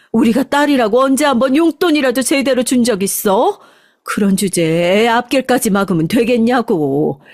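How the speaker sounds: wife laying down an ultimatum, rising on the divorce threat; angry ultimatum. Acted. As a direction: lay down the law to your husband. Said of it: "아버지를 쏘아 붙였습니다". (남편에게 이혼하겠다고 쏘아붙이는 아내)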